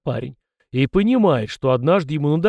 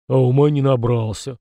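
scoffing snort; 6 dB louder than usual. Acted. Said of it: "фыркнул Фома".

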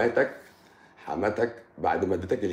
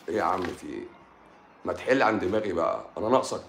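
annoyed. Acted. Doctor snapping back at a nagging viewer, fed-up. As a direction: brush him off, irritated.

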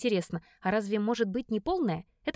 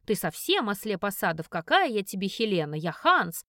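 lowered, mock-manly bass; 3 semitones lower than usual. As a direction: play the tough guy in a put-on bass. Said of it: "говорю басом". (басом)

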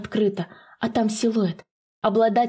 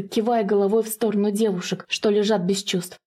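plain reading voice

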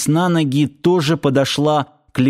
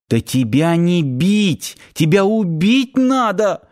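sobbing; 5 semitones higher than usual. Acted. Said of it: "всхлипнула Надя".

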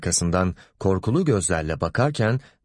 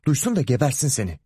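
fast, raised "duysun da gebersin seni"; mother threatening fast over the father; quick angry threat; 5 semitones higher, faster than usual. Acted. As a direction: rattle off the threat in a temper. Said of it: "Anne bağırma".

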